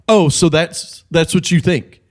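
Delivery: a light sceptical probe; lightly voiced teacher raising a brow; skeptical challenge. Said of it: "he was like".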